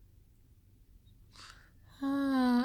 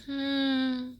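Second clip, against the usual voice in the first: imitated hum; 6 semitones higher than usual.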